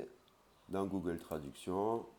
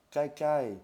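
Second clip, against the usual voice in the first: "Klai, klai" said higher and louder; emphatic doubling; doubled high klai; 9 semitones higher, 8 dB louder than usual. Shown as a demonstration. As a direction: repeat "Klai, klai" with raised pitch. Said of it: "on peut le dire deux fois".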